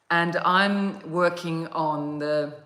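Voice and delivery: slow words through a yawn. Real, not acted. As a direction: speak while stifling a yawn. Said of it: "so I'm yawning today".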